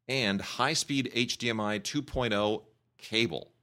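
slow, deliberate read-out; measured recital of small-print requirements, phrase by phrase; reading a warning label. Retold or imitated. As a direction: spell out each requirement slowly and distinctly. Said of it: "almost a warning sign on the back that says".

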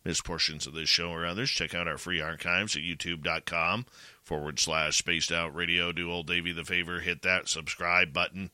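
low robot voice, lightly done. Pretend. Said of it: "It's my robot voice".

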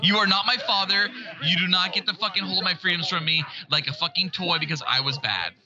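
thin, tinny audio; tinny mic. Real, not acted. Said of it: "your mic sounds so tinny".

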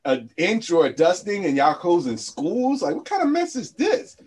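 comic outraged disbelief; mock incredulity. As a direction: pitch climbing into a high, disbelieving question. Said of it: "the North was just laughing".

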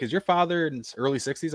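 lightly acted curious query; retold inquisitive questioning. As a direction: imitate someone checking a hunch. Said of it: "being inquisitive".

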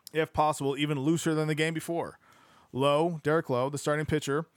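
steady audiobook-style reading; narrating a sports history book aloud; book narration. Acted. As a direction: read the passage out evenly to listeners.

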